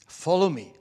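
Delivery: firmer repeated summons at speaking volume; Jesus. Acted. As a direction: call plainly and firmly to follow. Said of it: "So Jesus says to us".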